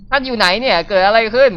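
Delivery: a touch of alarmed confusion; confused character voice. Acted. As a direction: read it as a bewildered heroine. Reads character's confused lines.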